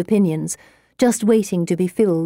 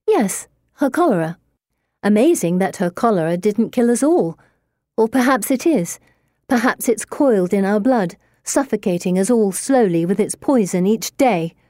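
venomous; 3 semitones higher than usual. Acted. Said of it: "I spit back with an equally venomous smile".

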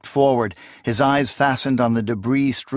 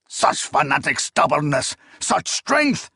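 rising to a high incredulous cry; exasperated exclamation; 3 semitones higher than usual. Acted. Spymaster losing patience with Akamian, incredulous exclamation. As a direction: marvel at it in exasperation.

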